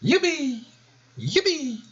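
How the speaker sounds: very high, squeaky yupi yupi yupi; cartoon revival cheer. Shown as a demonstration. Imagined sound for the character's revival, squeaky cheering. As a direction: cheer like a tiny game hero coming back to life. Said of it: "cuando vuelva a la vida diga".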